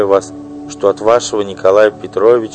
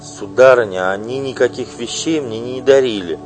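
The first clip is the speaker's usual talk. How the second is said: louder protest with a squeal; shrieked protest; 7 semitones higher, 5 dB louder than usual. Acted. Singer protesting to the wife, mock shriek. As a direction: squeal the denial at her. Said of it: "взвизгнула Паша".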